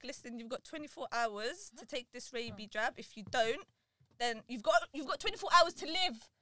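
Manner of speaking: matter-of-fact retold doctor's warning; indifferent doctor. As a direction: deliver it like a doctor who doesn't care. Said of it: "This guy didn't give a shit".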